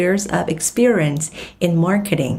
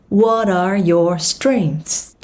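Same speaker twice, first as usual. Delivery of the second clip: slow whispered; much slower than usual. Shown as a demonstration. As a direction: whisper it slowly. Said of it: "whispered model".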